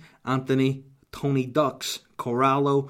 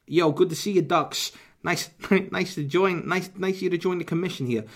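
mafioso welcome; 5 semitones higher than usual. Acted. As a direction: greet him like a boss at the table. Mob boss greets Tony Ducks.

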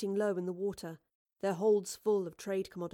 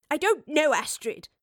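loud, higher outburst easing on the name; sudden angry snap; 7 semitones higher, 8 dB louder than usual. A narrator's reading. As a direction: snap at your companion in exasperation. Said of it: "snapped in sudden anger".

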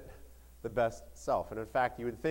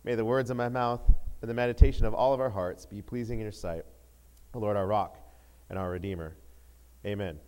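measured prayer, settling lower at the close; opening prayer; 3 semitones lower, 3 dB louder than usual. Real, not acted. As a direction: pray it in deliberate phrases. Go to the Lord in a time of prayer.

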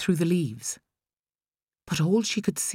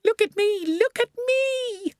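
put-on much higher, excited child calling. A narrator's reading. Boy on climbing frame calling to mother, excited.

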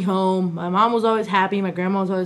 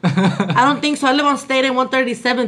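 sassy New York Latina. Acted. New York Latina telling off a man in her house, sassy. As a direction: tell him off with Bronx sass. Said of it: "Is that accent".

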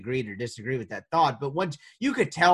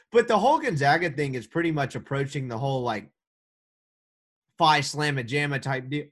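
talking through hiccups; hiccuping between words. Real, not acted. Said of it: "Excuse me, I have the hiccups".

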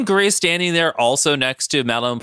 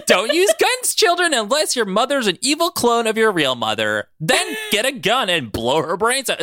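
robot voice; 7 semitones higher than usual. Retold or imitated. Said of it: "two X L robot".

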